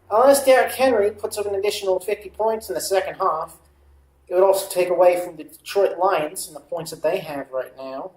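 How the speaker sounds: playful put-on Australian accent. Streamer on fantasy points, playful Australian accent. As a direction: try on a light Australian accent. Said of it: "my accent is switching to Australian".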